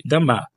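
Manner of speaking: "Dama" with emphasis on the last syllable; final-syllable stress. Shown as a demonstration. Teacher shows where Russian accent falls, final stress on "Dama". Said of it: "c'est vers la fin qu'on accentue".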